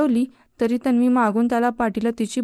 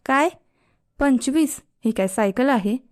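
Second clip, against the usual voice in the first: annoyed; 3 semitones higher than usual. Acted. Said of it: "Aryan वैतागून म्हणाला".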